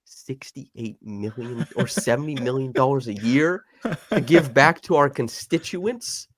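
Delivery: slow, indignant governor voice, words drawn out; mock outraged governor. Governor Gavin Newsom complaining about losing Ohtani's tax money, slow and indignant. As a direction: play the politician who can't believe the lost tax. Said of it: "and you're like".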